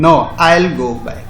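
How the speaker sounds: slow, clear model line; slow teaching read. Shown as a demonstration. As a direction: say it slowly for the class. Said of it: "ऐसे पढ़ेंगे".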